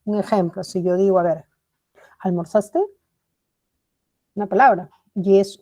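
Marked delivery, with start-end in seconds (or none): 2.2-2.8 "almorzaste" asked with a rising end; one-word question "almorzaste", tune going up; question intonation. Shown as a demonstration. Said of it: "tiene que tener una entonación de pregunta".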